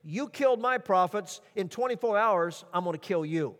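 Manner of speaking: preacher voicing Jezebel's threat to Elijah, mock menace; paraphrased threat. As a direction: play the angry queen vowing revenge.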